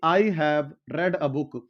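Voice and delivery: very slow, word by word; a deliberate classroom model sentence; slow teaching example. Shown as a demonstration. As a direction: spell it out slowly for students. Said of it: "इसलिए मैं इसको रेड पढ़ रहा हूं".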